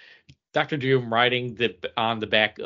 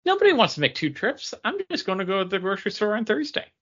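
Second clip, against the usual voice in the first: mock store announcement; 4 semitones higher than usual. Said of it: "That's like saying".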